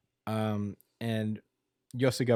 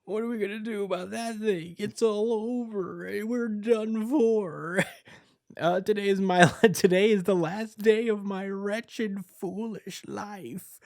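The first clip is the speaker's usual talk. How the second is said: panicking; 10 semitones higher than usual. Retold or imitated. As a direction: whimper like a doomed coward. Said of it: "she's, like, panicking".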